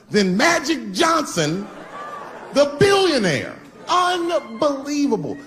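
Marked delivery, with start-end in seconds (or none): 2.5-5.4 mock astonishment. Real, not acted. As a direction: act stunned at the reveal. Mock outrage punchline.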